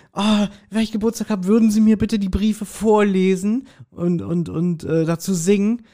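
lightly voiced woman. Retold sketch, lady begs the postman, lightly voiced. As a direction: sweetly ask the postman a favour. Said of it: "Und dann sagt sie".

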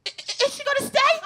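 high, anxious mom; a fretful mother glued to the movie; mother's anxious voice. Retold or imitated. Comedian's mother fretting over the TV movie, high and anxious. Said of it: "my mother's watching the movie like".

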